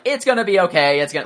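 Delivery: high, loud little alien chirp; imitating Babu Frick's high, loud squeaky voice. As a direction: squeak it like a tiny mechanic. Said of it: "they talk in, like, broken English".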